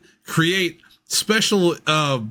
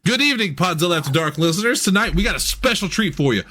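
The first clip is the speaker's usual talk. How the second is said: radio host intro; 3 semitones higher than usual. Acted. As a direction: read it like a cheesy late-night radio host. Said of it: "reading chatbot intro as host".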